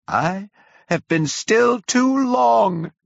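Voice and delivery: high, loud and slow, calling out; booming curate. A narrator's reading. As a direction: proclaim it slowly so it reaches the pit. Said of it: "in a tone that must have reached the pit".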